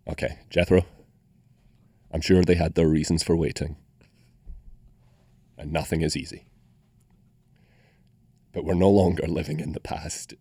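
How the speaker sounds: solemn mock send-off with long pauses; deadpan farewell. Podcast guest bidding Jethro goodbye through song titles, deadpan. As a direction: space out each phrase like a straight-faced eulogy.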